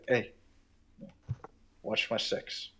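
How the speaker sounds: hushed, unvoiced aside; whisper. Player whispers to Kaladin to watch their back, whispered. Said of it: "I'll just whisper".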